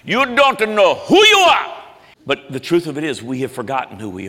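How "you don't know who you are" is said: much higher, slow, louder wise-monkey voice; Rafiki. Retold or imitated. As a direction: call out like an old mystic monkey. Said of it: "and he says".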